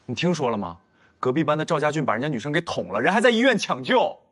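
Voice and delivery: rushed, breathless telling of the news, rising high at the end; excited gossip. Acted. Classmate spilling news of a stabbing to Shen Xing, rushed and rising. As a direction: blurt out the shocking news fast.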